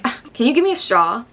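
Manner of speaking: quick, mock-entitled customer request; condescending customer. Customer talking down to a barista, mock condescension. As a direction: imitate someone talking down to staff. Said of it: "it's how you say it".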